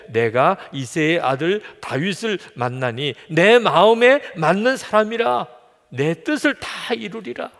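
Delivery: solemn voice of God. Acted. Preacher quoting God's praise of David, slow and solemn. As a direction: declare God's words slowly, swelling to a loud peak. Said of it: "이렇게 표현합니다".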